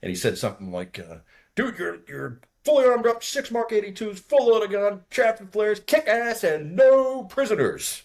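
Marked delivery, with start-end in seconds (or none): 1.6-8.0 high, loud old-sergeant impression; rally the pilot like an old sergeant, drawing out the last words; ancient master sergeant. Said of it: "there was this ancient, uh, master sergeant".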